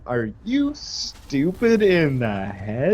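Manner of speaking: slow, stern question; teacher lightly scolding the student, slow. Retold or imitated. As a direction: drag it out like a fed-up teacher. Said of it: "she, like, sits you down".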